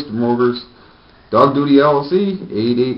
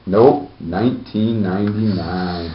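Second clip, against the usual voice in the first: infomercial. Pretend. Mock ad pitch.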